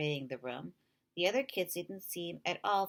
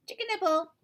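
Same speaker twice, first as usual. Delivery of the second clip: loud high outburst; tic shout; 13 semitones higher, 7 dB louder than usual. A narrator's reading. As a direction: burst out with the tic.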